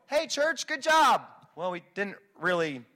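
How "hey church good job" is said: self-congratulation. Retold or imitated. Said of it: "we wanna go".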